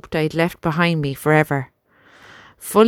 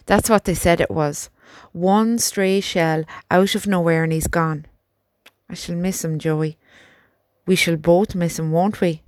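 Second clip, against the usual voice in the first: put-on grieving young soldier. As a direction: tell of a friend's death sadly. Albert grieving his friend.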